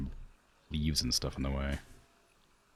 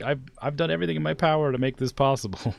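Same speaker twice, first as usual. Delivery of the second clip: exasperated; 10 semitones higher, 5 dB louder, faster than usual. Real, not acted. Frustrated at pathing.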